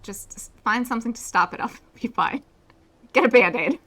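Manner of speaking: panicked rising shout; screaming in fear. Acted. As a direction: yell it out in fright. Panicked over blood in game dialogue.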